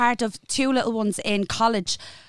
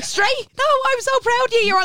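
mock pride; 13 semitones higher than usual. Real, not acted. Mock praise, high and squealing.

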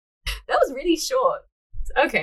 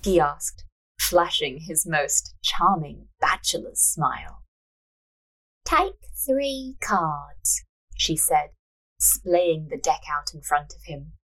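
measured storyteller's reading; story narration; 4 semitones lower, slower than usual. A narrator's reading. Narrator reading a fortune-teller scene, measured narration. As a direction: read the tale aloud, unhurried.

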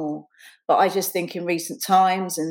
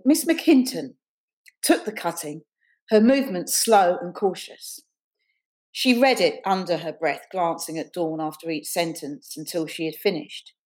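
measured, deliberate read-aloud; reading prose aloud, unhurried; story narration. A narrator's reading. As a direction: narrate the scene with careful phrasing. Reads her story aloud.

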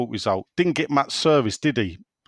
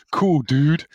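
put-on American accent; 3 dB louder than usual. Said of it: "I can't do American".

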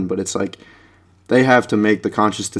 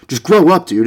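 high, louder sarcastic put-down; 7 semitones higher, 4 dB louder than usual. Acted. The stinging put-down said sarcastically, high and louder. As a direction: jab it mockingly. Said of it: "It's like a really".

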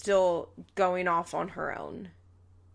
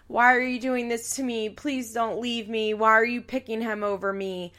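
mock guilt-trip; 3 semitones higher than usual. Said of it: "typical manipulation bullshit".

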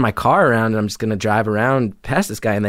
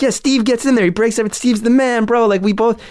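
much higher, eager fake excitement; mock enthusiasm; 11 semitones higher than usual. Narrator fakes enthusiasm for the show to calm the driver, eager high voice. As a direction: gush like a fan to win him over. Hyping Springer to calm attacker.

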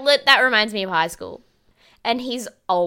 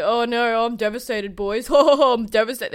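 sarcastic mock lament. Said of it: "He's like".

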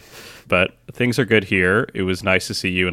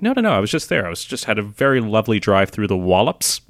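retold earnest protest; 2 semitones higher, 3 dB louder than usual. Retelling a British colleague insisting Cheshire is real, mock protest.

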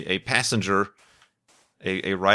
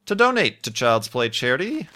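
voice cracking; 3 semitones higher than usual. Real, not acted. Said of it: "as my voice just cracked".

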